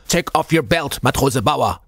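rough, urgent call to a sailor; gruff voice calling. A narrator's reading. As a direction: call out like a gruff old petty officer. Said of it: "a gruff voice".

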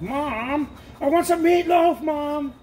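put-on high, loud whiny kid begging mom; child nagging his mom for meatloaf, high whine. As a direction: whine like a little kid wanting dinner.

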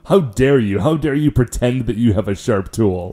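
hammed-up indignant scolding; mock outrage. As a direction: scold like an offended purist, in jest. Co-host plays outraged sharpening purist.

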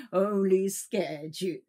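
slow, dry query; unsympathetic. Acted. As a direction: brush off his fear.

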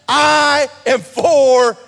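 a loud, slow, high cry of a preacher; booming pulpit proclamation; preaching shout. Acted. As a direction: stretch it out and shout it to the back row. God's promise, preached at full force.

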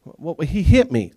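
slow, loud whine; whiny kid. Retold or imitated. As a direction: drag out the complaint. Kid whining.

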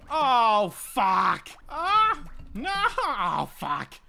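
loud, high bursts of alarm; panicked yelling. Real, not acted. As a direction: shout as the boss charges. Dodging boss in panic.

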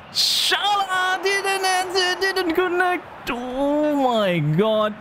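very high, drawn-out cry of disbelief; anguished outcry. Real, not acted. Gamer reacts to Salah's missed chance, anguished. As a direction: wail it out high and slow.

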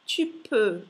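"tu peux" loud, rounded open-breath "eu" at the end; EU sound. Shown as a demonstration. Teacher models the diphthong, loud rounded EU. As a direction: land "peux" on a rounded French EU. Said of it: "E U è il dittongo che in francese dà il suono E".

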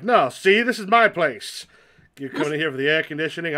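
mock territorial protest, rising in pitch and slowing at the end; indignant moviegoer. Player pretending to guard the picture show, mock indignant.

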